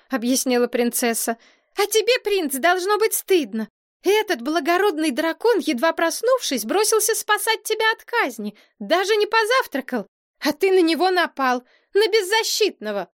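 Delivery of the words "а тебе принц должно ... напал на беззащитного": put-on high, scolding girl's voice; reproachful princess. A narrator's reading. Princess scolds prince for attacking the dragon, high and reproachful.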